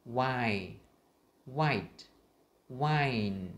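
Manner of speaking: "Why, white, wine" spaced out with each ending sounded; emphatic model contrasting the endings of "Why, white, wine"; clear final sounds. Shown as a demonstration. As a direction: drill "Why, white, wine", crisp t and held n. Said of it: "khác nhau âm cuối".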